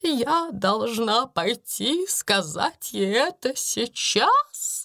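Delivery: высокий, медленный робкий голос; растерянная гусыня боится поручения; жалобная робкая Амелия. A narrator's reading. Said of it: "жалобно проговорила мисс Амелия". (робко и жалобно, выше)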